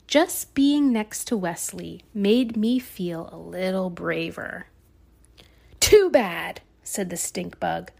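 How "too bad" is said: loud dismissive. Acted. Stink bug dismisses them.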